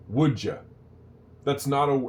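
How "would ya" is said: "Would ya" fused into one "wouldja"; shortened form. Shown as a demonstration. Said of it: "that's not a word".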